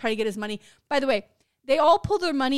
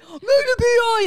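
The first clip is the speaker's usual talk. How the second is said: excited guess; 10 semitones higher, 7 dB louder than usual. Retold or imitated. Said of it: "he was so excited".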